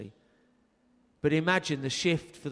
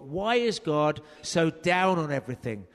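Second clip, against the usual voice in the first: loud, scolding, hammering each don't; demanding harangue; 2 semitones higher, 6 dB louder than usual. Retold or imitated. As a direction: rail against the rules, indignant. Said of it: "demanded of Steve Chalke".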